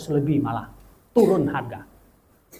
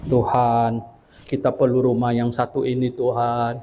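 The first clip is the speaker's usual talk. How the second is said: low, measured plea to God; retold prayer; 6 semitones lower than usual. Praying to God for this one house, low and steady. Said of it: "Saya sering kali berdiri di ujung sana".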